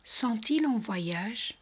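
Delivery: Sont-ils en voyage said slowly, sont-ils linked with a clear t; slow model reading. Shown as a demonstration. Teacher reading slowly for students to repeat. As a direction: read it slowly for repetition. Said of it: "Repetir conmigo".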